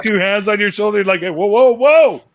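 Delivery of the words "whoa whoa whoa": loud, climbing mock-startled cry; hammed-up shocked protest; acted alarm. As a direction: imitate a startled patient, jumping higher each time. Acts out patient's startled reaction.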